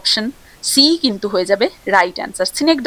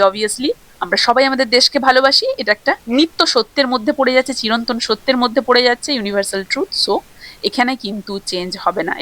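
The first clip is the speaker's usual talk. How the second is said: ordinary talk, nothing marked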